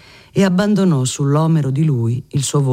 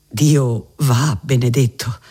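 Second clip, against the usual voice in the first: slow reverent whisper, barely voiced; hushed awed whisper to himself; slower than usual. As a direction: breathe the blessing slowly under your breath. Cardinal blesses God aside.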